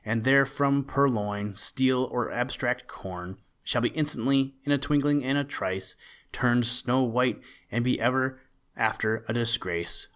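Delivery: mock-official notice, lightly declaimed; proclamation. A narrator's reading. Santa's written warning to the crows, mock-official proclamation. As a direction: read it out as a decree, leaning on the listed words.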